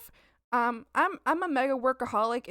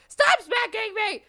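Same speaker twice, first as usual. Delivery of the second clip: louder, higher, slow scold; scolding the pet; 10 semitones higher, 8 dB louder, slower than usual. Real, not acted. Telling the cat to stop smacking her, slow loud scold. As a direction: drag it out at the pet.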